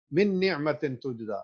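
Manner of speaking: من نعمت تجزا with the noons kept apart; wrong reading. Shown as a demonstration. Teacher showing the incorrect way. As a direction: say من نعمت separately, no ghunnah. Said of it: "Which is incorrect".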